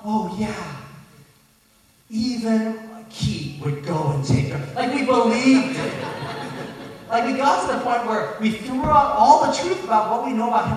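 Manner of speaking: laughing at their own gullibility; laughing while talking. Real, not acted. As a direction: tell it while cracking up at yourself. Laughs retelling their own foolishness.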